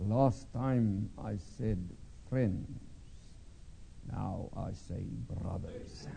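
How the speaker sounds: put-on Russian accent, heavy at times, soft at others. Retelling a man's words before he left, in a Russian accent. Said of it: "in his Russian accent".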